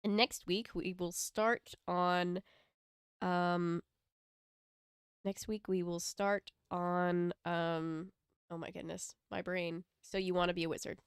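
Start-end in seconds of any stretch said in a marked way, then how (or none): 0.0-2.4 slow, spaced-out announcement; game show host. Real, not acted. Host telling viewers next week's book, game show style. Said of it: "like a game show almost". 5.2-7.3 slow, spaced-out announcement; game show host. Real, not acted. Host telling viewers next week's book, game show style. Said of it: "like a game show almost".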